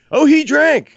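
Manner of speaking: high, loud gasping surprise; mock surprise. Friends gossip to him about Scott, hammed-up high surprise. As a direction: act out the friends' shocked reveal.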